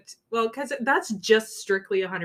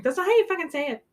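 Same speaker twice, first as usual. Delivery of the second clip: annoyed pedant; 9 semitones higher, 4 dB louder, faster than usual. Retold or imitated. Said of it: "there's people going".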